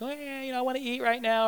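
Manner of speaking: mock baby whimpering; whining baby. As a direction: whine like a fussing nursing child. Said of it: "They're whining and they're crying".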